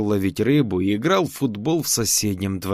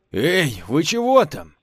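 calling out; 5 semitones higher than usual. Acted. Tolyan calls out from afar.

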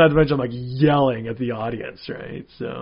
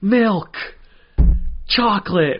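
higher nerdy movie voice; George McFly; 7 semitones higher, 4 dB louder, slower than usual. Retold or imitated. Lightly voiced George McFly quote for a friend. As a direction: go up high and timid like a nervous nerd. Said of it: "we'll do George McFly".

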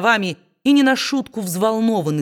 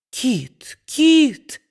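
high, rising exclamation; dismayed cry; 6 semitones higher than usual. A narrator's reading. Mother crying out to Kit in dismay, high. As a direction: cry his name in alarm. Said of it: "воскликнула миссис Наблс".

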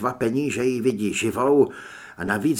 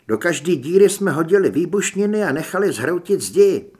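lightly voiced Holly, higher and louder; higher, louder report to the group; Holly's character voice; 4 semitones higher, 5 dB louder than usual. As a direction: recount the defence in a lightly raised character voice. Holly continues her report.

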